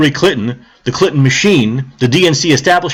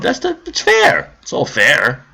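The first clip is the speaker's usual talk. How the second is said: sarcastic; slower than usual. Acted. Sarcastic mock.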